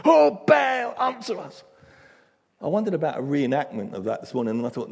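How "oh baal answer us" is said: high, loud frantic cry. Retold or imitated. Prophets of Baal crying out to their god, loud and high. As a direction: wail to a deaf god. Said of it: "with dancing and shouting".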